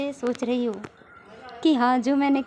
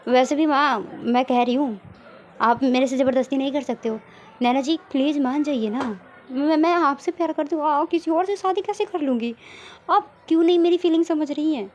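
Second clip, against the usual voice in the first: raised, desperate pleading voice; loud pleading; 3 dB louder than usual. Acted. Sakshi loudly begging Naina and her mother, desperate. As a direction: beg loudly, close to tears of frustration.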